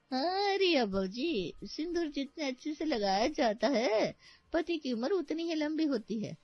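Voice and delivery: high-pitched village-woman sermonizing; preachy rustic laundry woman. Acted. Laundry woman advises bride on sindoor, preachy rustic voice.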